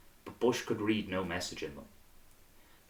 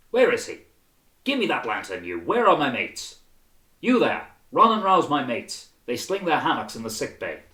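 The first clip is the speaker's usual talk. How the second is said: loud, higher calls for his mates; urgent calls; 5 semitones higher, 8 dB louder than usual. A narrator's reading. Surgeon Clive shouting for lantern and mates. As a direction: rouse everyone at once. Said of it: "surgeon roused, calling for help".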